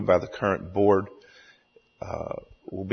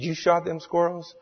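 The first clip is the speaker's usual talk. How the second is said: joke-teller's rough go at Cajun, pitched up; Cajun storyteller; 9 semitones higher than usual. Acted. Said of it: "tells the story in his hilarious Cajun accent".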